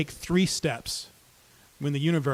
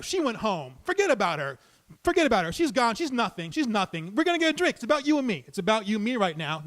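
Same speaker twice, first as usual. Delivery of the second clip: soothing; 6 semitones higher than usual. Retold or imitated. Calming an armed, angry stranger.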